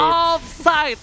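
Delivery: slow, stretched referee call; drawn-out call. Acted. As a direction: stretch it out like a ref. Caster mock referee call.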